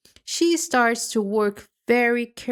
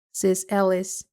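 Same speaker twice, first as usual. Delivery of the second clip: plain reading voice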